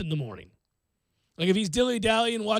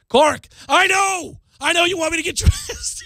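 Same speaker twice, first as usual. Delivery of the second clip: put-on furious kid; 7 semitones higher, 5 dB louder than usual. Son snapping at dad about getting dressed, mock furious. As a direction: stretch out a furious child's complaint. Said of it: "He's furious".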